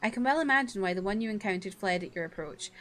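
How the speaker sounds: lightly acted, storybook reading of the game lines; reading game dialogue. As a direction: read out the cutscene with a little character. Reads game dialogue in voices.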